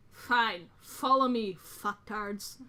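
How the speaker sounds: punchy, exasperated giving-in; heavy-sigh resignation. Acted. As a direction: grudgingly order them along. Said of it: "like, a heavy sigh".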